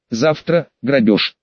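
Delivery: troll bark. Acted. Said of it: "рявкнул он".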